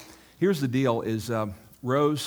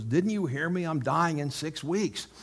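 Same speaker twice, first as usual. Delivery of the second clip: higher-pitched, mock-exasperated retort; retold indignant objection; 5 semitones higher than usual. Rose objecting to the bus run invitation, imitated indignation. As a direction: protest in an imitated huff, pitch up.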